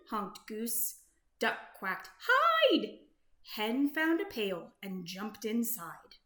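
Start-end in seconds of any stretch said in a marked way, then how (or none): 2.2-3.0 very high, louder alarm shout; panicked cry. Acted. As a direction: shriek to take cover. Duck panics.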